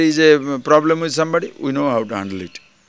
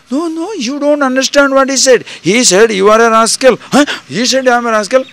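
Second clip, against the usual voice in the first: insistent shock; 8 semitones higher, 6 dB louder than usual. Acted. Insistent friend, shocked reply.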